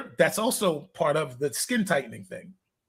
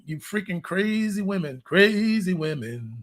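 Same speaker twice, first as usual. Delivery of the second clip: laughing rant; slower than usual. Real, not acted. Joking rant about women.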